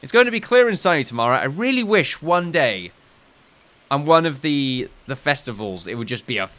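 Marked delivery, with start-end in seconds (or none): 0.0-1.4 mock forecaster. Reading the weather forecast.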